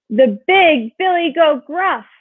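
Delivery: a hint of a booming big goat. A narrator's reading. Biggest goat answering the troll, mildly booming. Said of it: "his voice was as loud as the troll's".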